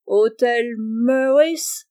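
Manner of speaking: put-on very slow, drawn-out English-accented French; solemn English accent. Monsieur Abel posing as an Englishman at the grocer's, solemn English accent. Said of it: "avec un accent anglais très prononcé et très solennel".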